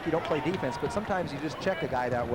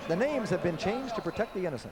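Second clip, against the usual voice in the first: announcer voice; 4 semitones higher than usual. Pretend. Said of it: "That sounded like an announcer".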